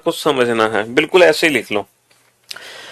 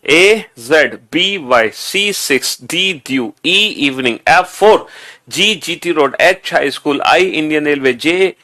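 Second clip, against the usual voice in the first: measured read-along recitation; lead group recitation. Shown as a demonstration. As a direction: lead the class through the list, stretching the first letters. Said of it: "चलो दोबारा से".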